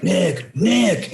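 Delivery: calling out. Retold or imitated. Calling to bandmate onstage.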